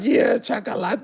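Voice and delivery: high, soft falsetto coo; mock admiring Latinas. Streamer imitating Latinas calling him chocolate, mock high coo. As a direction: imitate a woman cooing at you. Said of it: "they like".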